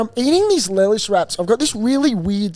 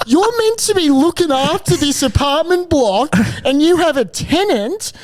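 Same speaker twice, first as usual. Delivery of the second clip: high, indignant retold rant; incredulous outburst; 4 semitones higher than usual. Tenant confronting the impartial concierge, incredulous. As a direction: reenact being outraged, half laughing as you start.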